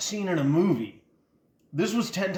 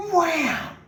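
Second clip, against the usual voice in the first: mock wham; 13 semitones higher, 3 dB louder than usual. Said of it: "and I went".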